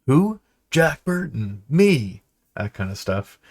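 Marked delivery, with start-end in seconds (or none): 0.0-0.4 high loud puzzled who; much higher and louder confused who; baffled who. Retold or imitated. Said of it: "and people go". 0.7-2.2 high boastful self-naming; arrogant braggart. Retold or imitated. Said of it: "say he's arrogant".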